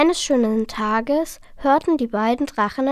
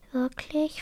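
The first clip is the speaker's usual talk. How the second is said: doubtful; 2 semitones higher, 8 dB quieter than usual. A narrator's reading. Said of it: "fragte der kleine Otter zweifelnd".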